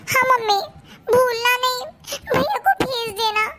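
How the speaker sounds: crying, pleading to mom; tearful plea. Acted. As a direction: beg through tears. (रोते हुए विनती)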